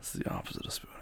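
soft low whisper. Real, not acted. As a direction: breathe it close and quiet. Cuddling partner in bed.

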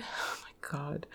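soft slow whisper of disbelief. Real, not acted. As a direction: breathe it out slowly in awe. Whispered reaction to twister.

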